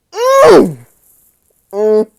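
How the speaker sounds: high loud hum of approval; strong affirming mm; emphatic mm. Real, not acted. Emphatic reaction.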